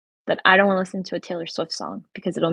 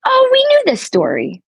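excited teasing; 9 dB louder than usual. Real, not acted. Teasing the host's old story.

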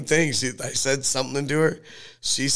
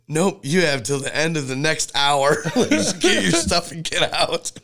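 mock stern mom; 4 semitones higher, 3 dB louder than usual. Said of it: "And she said".

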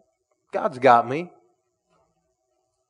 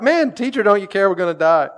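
mock panic; 6 semitones higher, 4 dB louder than usual. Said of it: "so they're like".

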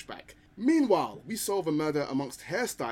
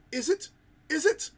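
higher, louder teasing question; playful question; 8 dB louder than usual. Acted. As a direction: tease the listeners with it. Teasing rhetorical question, rising.

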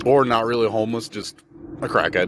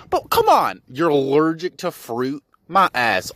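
incredulous; 5 semitones higher, 4 dB louder than usual. Real, not acted. Incredulous rant.

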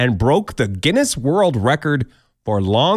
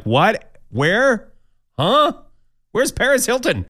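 rising, bewildered questions, getting higher; confused traveler; 8 semitones higher, slower than usual. Retold or imitated. Traveler getting off the plane in Texas, baffled and rising. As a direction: sound lost and baffled. You're like.

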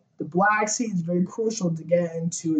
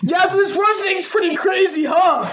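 high squeaky E T voice; 외계인 목소리처럼 높고 가늘게; squeaky alien voice; 13 semitones higher, 5 dB louder than usual. Pretend. ET's voice jumps very high, far.

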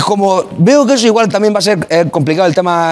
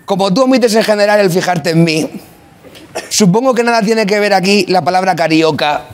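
grand poetry declamation; 2 semitones higher than usual. Pretend. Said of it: "Voy a marcar, eso sí, mucho las últimas sílabas".

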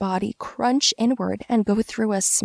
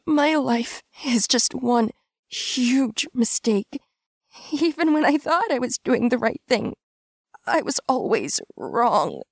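bitter chuckle; 5 semitones higher than usual. A narrator's reading. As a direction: laugh at yourself bitterly. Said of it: "I chuckled".

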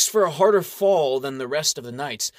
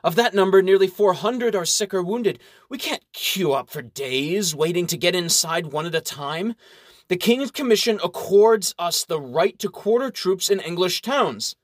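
commanding baron; 5 semitones higher than usual. Acted. Baron demands entry.

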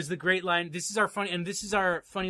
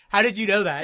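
mock shock; 4 dB louder than usual. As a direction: act floored that she understood. Mocking Jack's shocked question.

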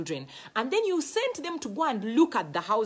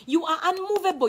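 unmovable said louder and higher; emphatic repeat; 6 semitones higher, 6 dB louder than usual. Shown as a demonstration. Preacher driving the point home to the congregation, louder. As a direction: hammer the word unmovable home.

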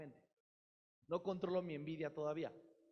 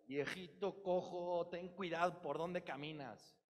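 mocking scold; slower than usual. Mock cruel remark to fallen man.

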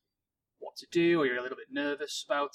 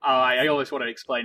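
laughing excitedly; 8 dB louder, faster than usual. Real, not acted. Laughing excitedly about Joey.

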